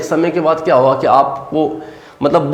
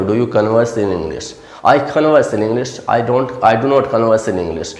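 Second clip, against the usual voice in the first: slow teaching demo; 4 semitones lower, much slower than usual. Shown as a demonstration. Teacher models question and answers.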